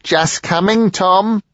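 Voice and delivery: high, loud barked call. A narrator's reading. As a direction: bark it out through the door. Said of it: "followed it with a barked".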